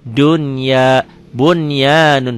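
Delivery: "Dunya" and "bunyanun" with N kept before Y; clear unmerged N. Shown as a demonstration. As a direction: slowly separate N from Y in "Dunya, bunyanun". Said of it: "Ini idhar mutlak".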